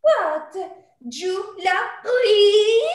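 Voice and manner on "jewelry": "Jewelry" drawn out slow, French style; French accent. Acted. Maid teasing with a French-accented "Jewelry". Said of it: "I love it when you say that word".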